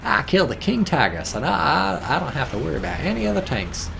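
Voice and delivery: lightly put-on American accent; American voice, close to the speaker's own. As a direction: boast as an American character. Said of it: "It should have been, just been an American".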